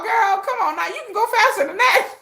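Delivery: mock her slowness with glee; high giggly jeer; laughing taunt. Taunting the fleeing executive.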